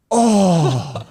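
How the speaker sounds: high, drawn-out "oh" of horror; dismayed groan. Retold or imitated. Young player hears he has an infection, dismayed groan.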